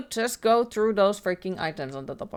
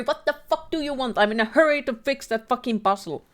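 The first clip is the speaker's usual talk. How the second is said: annoyed outburst; 6 semitones higher, 4 dB louder than usual. Acted. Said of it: "Because I'm annoyed about the puzzle".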